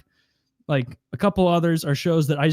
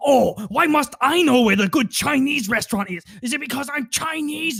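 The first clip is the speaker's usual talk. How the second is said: higher, offended put-on voice; mailman impression; 10 semitones higher, 3 dB louder than usual. Friend acting out the mailman's indignant reply. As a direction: take mock offence. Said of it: "He's like".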